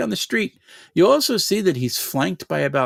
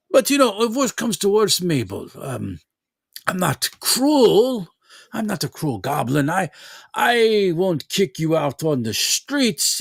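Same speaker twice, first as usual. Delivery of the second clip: a polite threat from a moneylender; goblin lender; 5 semitones higher than usual. Acted. Goblin speaks to Mabel.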